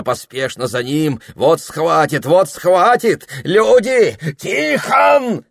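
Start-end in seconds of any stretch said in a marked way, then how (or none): 1.3-5.4 high, loud panicked cries; loud terrified shout for help; terrified screaming. A narrator's reading. Fleeing a giant snake.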